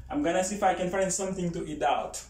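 quick reduced I'm gonna see; fast reduced speech demo. Shown as a demonstration. Teacher showing fast relaxed speech with gonna. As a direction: run it together the American way. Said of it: "yon fason pou pale".

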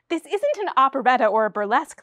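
mild cry. Acted. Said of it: "the playwright cried".

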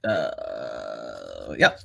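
a hint of Obama, low and halting; slow Obama pause before yeah; lightly voiced Obama; Obama impression. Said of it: "Me doing Obama doing Caesar".

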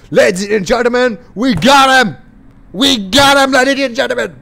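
fast, loud showman announcement; announcer voice. Acted. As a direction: announce it like a ring host. Announcing the win.

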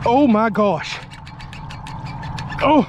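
high, slow amazed exclaims; stunned after the fight; excited. Real, not acted. Fish fight ends.

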